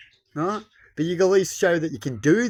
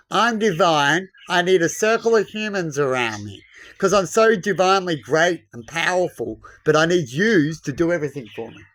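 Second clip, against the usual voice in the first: mock divine leader. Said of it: "I call them divinely stupid".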